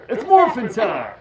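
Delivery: loud, slow heroic call through voice changer; modulated battle cry. Pretend. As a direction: shout the catchphrase, drawn out. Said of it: "let's try something".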